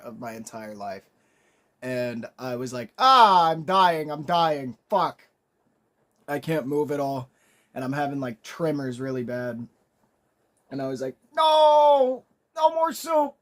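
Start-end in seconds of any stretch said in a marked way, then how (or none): 3.0-7.3 loud, high panicked cry; loud, higher panic, breaking into a cry. Retold or imitated. Panicking after nearly choking. 11.3-13.4 high, loud desperate yell; a shrill-sounding high panicked shout. Retold or imitated. Swearing off the soup in panic.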